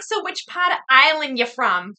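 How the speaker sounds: imitated Boston accent, lightly done. Woman on a date asking about Ireland, imitated Boston accent. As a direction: mimic a Boston local's question. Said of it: "like that Boston, the Boston accent".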